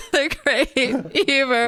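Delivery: mock-sad slow lament. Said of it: "Do a sad version of it".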